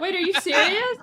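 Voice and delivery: high, disbelieving question; incredulous. Real, not acted. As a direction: ask it in total disbelief. Disbelief at friend.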